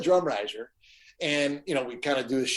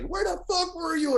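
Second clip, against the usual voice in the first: high-pitched, incredulous question; retold exasperated demand. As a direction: imitate a frantic tech demanding answers. Retold tech confronting the missing guitarist.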